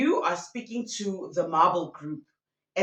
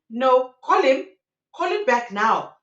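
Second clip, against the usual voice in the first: louder, higher mock demand; retold freak-out; 4 semitones higher, 6 dB louder than usual. Betrayed girlfriend demands they call him back, imitated freak-out. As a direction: insist urgently as the upset girlfriend. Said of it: "She is freaking out".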